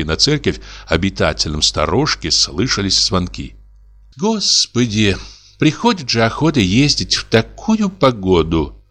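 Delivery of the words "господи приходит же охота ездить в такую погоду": sighing. Acted. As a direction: sigh it out over the weather. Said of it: "вздохнула дьячиха".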